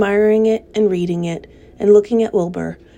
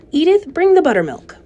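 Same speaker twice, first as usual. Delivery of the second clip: calling out; 9 semitones higher, 4 dB louder than usual. A narrator's reading. Calling to his wife.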